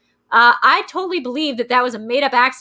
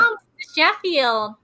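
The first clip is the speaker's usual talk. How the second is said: high, slow sitcom impression; high-pitched, stretched celebrity mimicry; Fran Drescher; 5 semitones higher than usual. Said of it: "it's starring Fran Drescher".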